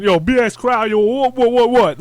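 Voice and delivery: mock rowdy shouting; imitated crowd-hyping. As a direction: holler it at the camera like a hype man. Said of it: "he just starts going".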